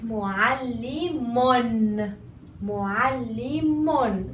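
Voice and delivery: mu'allimun drawn out, ll doubled, ending un; slow with tanween. Shown as a demonstration. Teacher repeats slowly for students. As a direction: stretch mu'allimun, hold the ll. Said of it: "notice the tanween".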